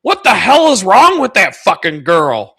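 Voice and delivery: imitating an outraged buddy, loud and high; mock outrage. Buddy reacting to a clip he believes is real, mock outrage. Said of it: "he's going on and on and on".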